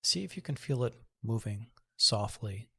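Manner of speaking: calm, measured meditation voice with long pauses; guided meditation. Acted. Host guiding listeners to breathe and notice the body, guided meditation. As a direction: ease them gently through breath and body awareness.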